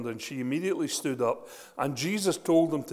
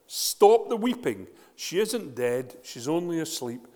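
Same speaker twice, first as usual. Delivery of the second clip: commanding call; 3 semitones higher, 6 dB louder than usual. Acted. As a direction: call out firmly, slowing down. Jesus commands the mourners.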